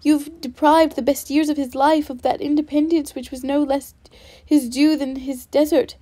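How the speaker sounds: heated, rising accusation; with energy. Acted. Elizabeth defending Wickham against Darcy, heated and energetic. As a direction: throw the charges at him one by one. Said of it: "cried Elizabeth with energy".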